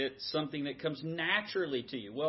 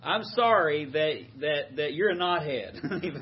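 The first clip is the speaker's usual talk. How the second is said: slow, louder, sneering sorry; mock apology; 3 semitones higher, 6 dB louder, slower than usual. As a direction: drag out a condescending apology. Mocking insulting apology.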